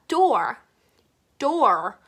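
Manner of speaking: "door" with a hard, tense D; "door" as a careful model with a firm D; firm D sound. Shown as a demonstration. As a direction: start "door" on a doubled Korean-style D. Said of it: "뜨 소리를 내주세요".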